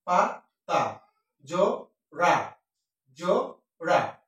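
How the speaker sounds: "জো, রা" split into slow separate syllables. Shown as a demonstration. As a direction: sound out "পা, তা" one syllable at a time, very slowly. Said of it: "একসাথে উচ্চারণ করা হয়". (অক্ষর আলাদা করে ধীরে উচ্চারণ)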